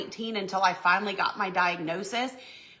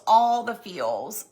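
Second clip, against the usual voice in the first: slow savoring; 4 dB louder, much slower than usual. Real, not acted. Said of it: "I'm just in all the feels".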